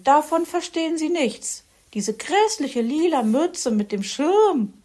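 high, loud snooty magpie voice; haughty Frau Elster. A narrator's reading. Frau Elster mocks Herr Fuchs's cap, high snooty voice. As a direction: look down your beak at him.

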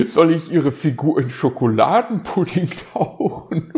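teasing question ending in a hooting laugh; laughing owl. Acted. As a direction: tease him, then burst out laughing. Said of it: "lachte Onkel Uhu". (lachender Uhu, neckend)

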